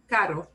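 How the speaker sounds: "caro" with one light tap on the R; weak R. Shown as a demonstration. Teacher showing the word for expensive, "caro" with untrilled R. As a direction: keep the R in "caro" to a single tap. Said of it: "not a strong R".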